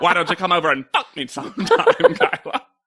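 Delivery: put-on loud old Hollywood vamp voice, wide swooping pitch. Imitating a judge talking to a model: Mae West voice. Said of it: "it becomes Mae West".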